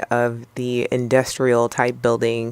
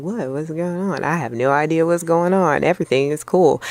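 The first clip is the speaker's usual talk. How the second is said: flustered; 4 semitones higher than usual. Retold or imitated. Ben to his girlfriend mid-argument, flustered and higher. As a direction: sputter like you're lost. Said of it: "And Ben's like".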